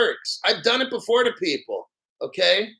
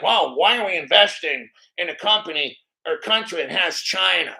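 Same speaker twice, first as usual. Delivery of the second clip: lightly mocked dim-witted voice, pitched lower; mocking dumb commenter; 4 semitones lower than usual. Streamer quotes a viewer questioning investing in China, lightly mocking dimwit. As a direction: mimic a stupid commenter, dropping your pitch. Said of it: "this person's so fucking stupid".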